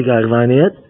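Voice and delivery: acted retort, dropped in pitch; low retort. Other spouse answers about crying, low acted retort.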